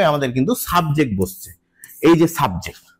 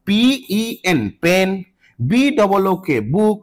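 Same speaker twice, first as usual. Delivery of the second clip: slow spelling out; slower than usual. Shown as a demonstration. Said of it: "তোমাদের এখানে যে example গুলো দেখছো".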